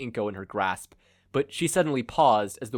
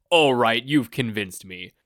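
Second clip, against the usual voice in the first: much louder, then slow and pompous; eager villain; 8 dB louder, slower than usual. Acted. Villain eagerly gives in to tell his story. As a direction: cave in eager to talk about himself.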